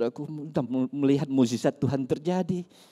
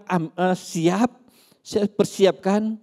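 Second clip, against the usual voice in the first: slow retelling; 3 semitones higher, 5 dB louder, much slower than usual. Retold or imitated. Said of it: "kalau saya udah bilang".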